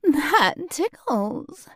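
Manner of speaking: high playful squeal. Acted. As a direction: squeal it out, ticklish.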